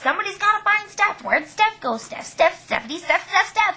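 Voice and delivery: high searching calls for Steph; calling for Steph. Retold or imitated.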